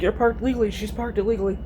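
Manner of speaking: talking while choking on cookie crumbs. Real, not acted. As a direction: push the words out through a crumb cough. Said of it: "Sorry, I was choking on cookie crumbs".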